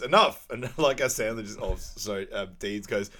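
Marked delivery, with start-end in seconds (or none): 0.0-0.5 a loud retold bark; mock shout. Retelling Chuck Cedar's outburst with a loud shout. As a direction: belt it out to cut the scene off. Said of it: "Chuck Cedar goes".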